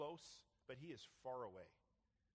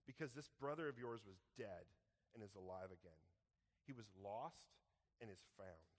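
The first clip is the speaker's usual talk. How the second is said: tender father; 2 semitones lower than usual. Acted. Father gently answers son.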